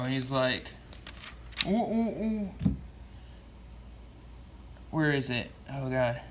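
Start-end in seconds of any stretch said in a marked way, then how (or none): 1.7-2.5 high-pitched imitated "ooh, ooh, ooh"; mock freakout noises. Bystander freaking out on Green Arrow, mock panicked oohs. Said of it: "starts freaking out on Green Arrow".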